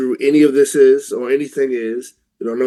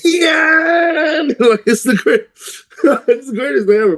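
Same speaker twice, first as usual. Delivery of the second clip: laughing; 13 semitones higher, 4 dB louder than usual. Real, not acted. Laughing at the impression.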